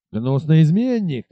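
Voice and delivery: slow, mild mock outrage; captain cursing the fleeing rider, lightly acted rage; furious cry. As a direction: spit out the insult. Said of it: "вскричал он".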